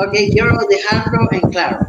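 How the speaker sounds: put-on Spanish with an American accent. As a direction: speak Spanish like an American star. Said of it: "ahora sí vamos a hablar como mi persona".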